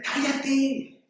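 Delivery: crowd shushing a beggar. Retold or imitated. Crowd hushing the blind man, scolding in a high, held-back voice. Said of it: "Entonces le decían".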